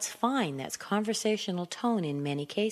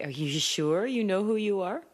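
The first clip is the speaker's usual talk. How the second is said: higher, climbing to a questioning end; doubting question; 4 semitones higher than usual. Acted. People questioning the uptalker, doubting rise. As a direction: question it with rising disbelief. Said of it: "people are gonna say".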